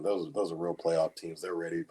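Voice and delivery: dry sarcastic downplaying. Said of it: "the speaker is a thousand percent being sarcastic".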